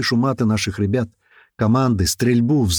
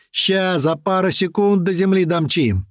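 slow, higher, gleeful pilot boast; a cheeky pilot bragging to scared passengers; 7 semitones higher than usual. A narrator's reading. (весёлое хвастовство)

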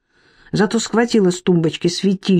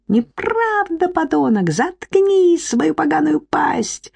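much higher, slow furious "Неправда"; shrieking denial; 10 semitones higher, slower than usual. Acted. Irka denying Marik's accusation, very high shriek. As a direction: scream him down.

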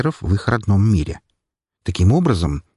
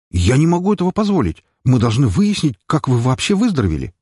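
doctor objecting; 6 semitones higher than usual. Acted. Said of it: "возразил доктор". (врач возражает)

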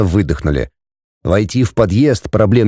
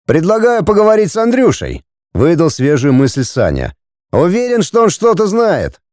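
pitched higher as the friend Sanya; a frowning friend answers, voice raised; lightly voiced friend; 6 semitones higher than usual. Frowning friend in the car answers the driver, pitched higher.

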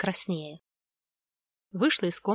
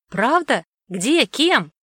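quick, loud, higher questions; surprised exclamation; 5 semitones higher, 8 dB louder, much slower than usual. Acted. Daughter hearing dad found a job, surprised and loud. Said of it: "воскликнула я удивлённо".

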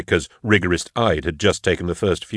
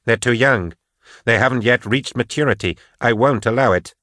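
raised, insistent objection; firm protest; 3 semitones higher than usual. Acted. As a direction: push back urgently. Patience protests sisters' indenture.

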